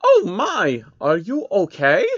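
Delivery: high, gentle voice of a kind princess; worried princess, sweet and high; soft high princess voice. A narrator's reading. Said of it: "asked a soft voice".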